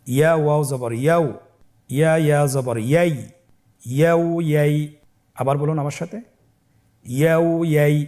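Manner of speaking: chanted spelling, clear and firm; loud recitation drill. Shown as a demonstration. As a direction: lead the class aloud, syllable by syllable. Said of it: "আপনারা আমার সাথে বলুন". (উচ্চ আওয়াজে বানান পাঠ)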